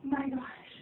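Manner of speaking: slow tearful sobbing; real happy tears; crying. Real, not acted. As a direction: let it out through tears, slowly. Crying over positive test.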